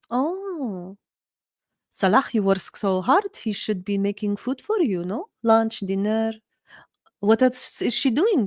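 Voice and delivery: lightly voiced auntie, mock pity turning to judgement; scheming auntie. Auntie hinting to Salah that his wife is lazy, mild mock concern. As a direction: sow doubt with fake sympathy. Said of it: "the aunts would go".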